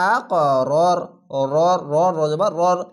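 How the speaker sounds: আ ক with a hard bounced ক, loud; bouncing qalqala. Shown as a demonstration. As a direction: punch the ক so it bounces upward. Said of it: "কলকলা ধাক্কা মেরে ওপরে sound যাবে".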